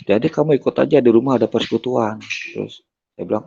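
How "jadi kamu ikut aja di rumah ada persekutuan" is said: raised-pitch urging, lightly acted; retold coaxing invitation. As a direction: imitate a pastor nudging someone along. Pastor urging him to join, retold. (menirukan pendeta mengajak dengan nada naik)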